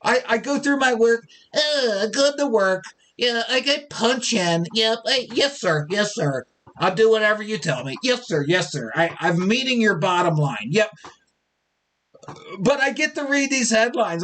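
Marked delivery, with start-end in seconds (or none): 1.5-10.9 obedient worker. Pretend. Mock worker to the boss.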